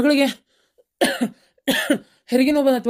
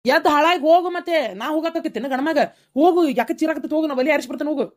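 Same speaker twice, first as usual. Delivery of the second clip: raised, higher-pitched scolding; irritated; 5 semitones higher than usual. Acted. Husband sending wife to check on the screaming girl, irritated. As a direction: order them off impatiently.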